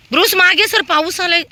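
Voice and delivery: very high, loud yell at a dog; real shouted command. Real, not acted. Feeder ordering a pushy dog back in rain, shouted command.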